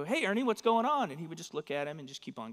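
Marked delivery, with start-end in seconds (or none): 0.0-1.1 higher-pitched puppet calling out; lightly voiced puppet, pitched up; Bert. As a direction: call over to a puppet friend. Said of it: "And Bert would kind of".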